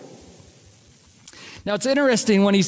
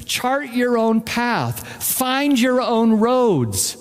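higher, slow, coaxing voice of the world; lightly voiced tempting world; 4 semitones higher, slower than usual. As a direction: woo them like a smooth tempter. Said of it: "the world tells you".

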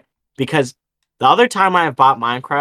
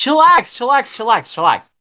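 mock chill buddy; 11 semitones higher, 4 dB louder than usual. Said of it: "he's like".

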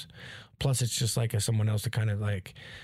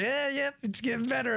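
amused, cracking up; 13 semitones higher than usual. Retold or imitated. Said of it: "I'm like".

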